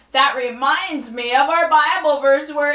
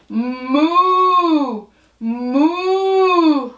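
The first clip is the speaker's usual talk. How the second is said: cow moo; 2 semitones higher than usual. Pretend. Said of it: "will you moo with me?".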